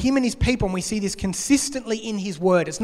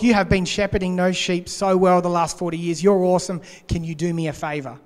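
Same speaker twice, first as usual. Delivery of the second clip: mock flattery. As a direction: sweet-talk him in jest. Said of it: "not buttering up Moses".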